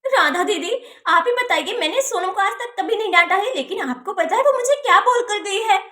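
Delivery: upset complaint with swinging pitch; angry complaint. Acted. Aunt telling sister about the rude child, angry complaint. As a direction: complain indignantly, acted. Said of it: "जो इतना गुस्सा कर रही हो".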